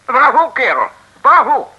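high, loud, jubilant bravo; delighted cheer. Acted. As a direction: cheer like a man just given his post back. Mayor cheers getting job back. (hoog, luid en uitgelaten)

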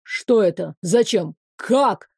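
a teacher thrown off his lecture; dumbfounded professor's voice; stunned professor. Acted. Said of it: "Тон преподавателя ... до ошеломлённого".

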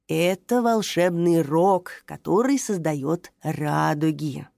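put-on slow, low, mysterious old voice; an old tree revealing a secret; mysterious old grandpa. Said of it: "таинственно произнёс дедушка Рубус".

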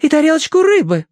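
high, loud imperious order; haughty order. A narrator's reading. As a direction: demand fish for the pet. Tossie orders more.

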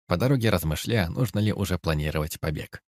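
plain reading voice

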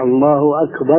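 الله أكبر with a clear u on the ending of أكبر; the right الله أكبر, ending with u; correct form. Shown as a demonstration. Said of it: "وصوابها". (الله أكبرُ بالضم الصحيح)

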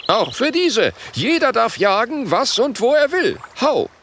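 a squeaky, zealous chief; high-voiced chief. Gelbes Ei antwortet eifrig.

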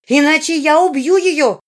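put-on a raging girl screaming to kill; screaming threat. A narrator's reading. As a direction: scream the threat as she lunges. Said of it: "заорала Жизара".

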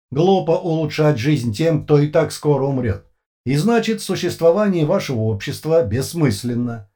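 no pauses, no feeling; emotionless metallic voice. A narrator's reading. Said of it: "совершенно без пауз и эмоций".

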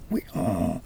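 lightly brayed oui like a donkey; a hint of a donkey's hee-haw. A narrator's reading. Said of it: "plus fort que l'âne encore".

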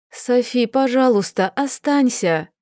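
pleading. Acted. Daniela begging Sofi to stay, mild plea. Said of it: "взмолилась я".

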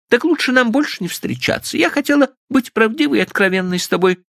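put-on high girlish protest, quick at times; wounded young woman. Stephanie protesting her honesty to Frank, high and hurt. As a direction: insist on your honesty in a high voice.

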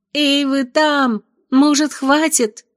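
high, slow call to the ceiling; shouting upward. Pretend. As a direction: yell it up into the temple vaults. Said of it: "выкрикнуть куда-то под высокие своды".

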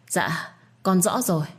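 slow, shaken stammer; stammering fearfully. Acted. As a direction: stumble out the words in fright. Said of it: "Báo thất kinh và lắp bắp". (lắp bắp sợ hãi)

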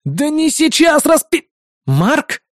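high, slow furious yell cut off; angry outburst. A narrator's reading. Hero yelling at the team, high and furious. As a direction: yell then catch yourself.

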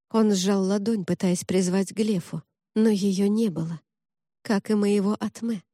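plain reading voice

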